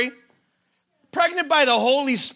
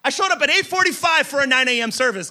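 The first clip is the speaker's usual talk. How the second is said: slightly raised, whiny complaint to God; exasperated pleading believer; 3 semitones higher than usual. Retold or imitated. A frustrated believer complaining to God, lightly whiny and pleading. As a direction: list your efforts like you're owed an answer. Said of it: "It's like".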